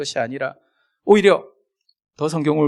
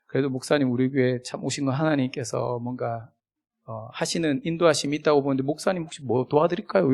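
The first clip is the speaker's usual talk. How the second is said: softer, gently offered help; warm; 6 dB quieter than usual. Retold or imitated. Pastor offering help to a newcomer, softly warm. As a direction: imitate a pastor softening into kindness. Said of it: "따뜻하게".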